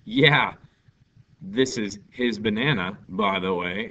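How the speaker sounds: loud mock-casual reply; loud casual aside. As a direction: toss it off loudly. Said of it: "I'd be like".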